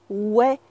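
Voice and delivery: "ouais" with an open eh, rising; casual "ouais", said weh; slang yes. Shown as a demonstration. French teacher contrasts three yeses, the slang one. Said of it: "You can hear a difference?".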